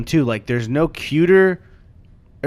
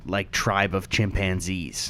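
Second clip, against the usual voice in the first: whispering; 7 semitones lower, 9 dB quieter, slower than usual. Real, not acted. Whispered aside.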